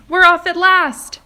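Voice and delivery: very high, very loud cheer; excited shout. Acted. A creature announcing the departure, ecstatic loud shout. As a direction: cry it out with glee. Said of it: "someone was shouting".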